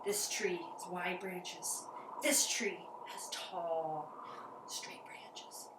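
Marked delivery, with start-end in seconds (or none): 2.2-5.7 whisper. Shown as a demonstration. Teacher describing tall trees to kids, whispering. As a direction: hush it like a secret.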